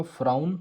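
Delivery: फ्राउन rhymed with क्राउन; trick pronunciation. Shown as a demonstration. Teacher showing his way of reading the word, फ्राउन with "au". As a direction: say फ्राउन with an "au" sound, like crown. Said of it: "इसको मैं पढ़ूंगा".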